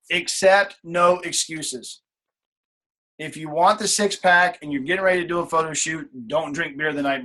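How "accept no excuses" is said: slower still, emphatic. Shown as a demonstration. Coach repeating the rule, slower and weightier. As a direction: stretch out every word.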